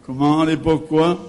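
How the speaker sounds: calling out loudly to the back row; yelling across the room. Real, not acted. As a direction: raise your voice to reach across the hall. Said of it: "J'entends pas. Approche-toi".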